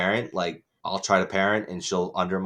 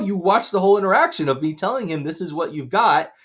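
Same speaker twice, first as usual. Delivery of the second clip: heated rant; 5 semitones higher, 3 dB louder than usual. Retold or imitated. Ranting at mother retold.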